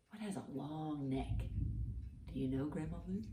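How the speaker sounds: soft whispered ask. Real, not acted. Grandma whispering to Grandma Lou about the giraffe.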